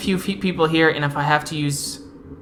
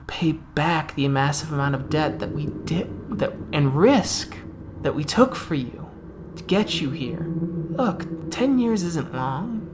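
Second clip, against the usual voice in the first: smug captor; 2 semitones higher than usual. Acted. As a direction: sweet-talk a prisoner into obeying. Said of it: "He goes".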